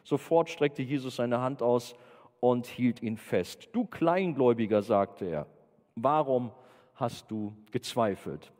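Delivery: slow, solemn Bible reading; measured scripture reading. Acted. Preacher reads of Jesus saving the doubter, measured reading. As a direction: read it out slowly, settling toward the end.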